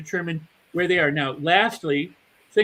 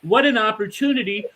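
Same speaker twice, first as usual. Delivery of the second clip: excited; 4 semitones higher, 4 dB louder than usual. Retold or imitated. Imitating a positive person's excited reaction, higher. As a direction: savour it like a gift. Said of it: "rather than going".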